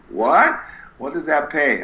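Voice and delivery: high startled What?; surprised wife. Retold or imitated. Wife hearing the new job plan, high startled disbelief. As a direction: blurt it in disbelief. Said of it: "she goes".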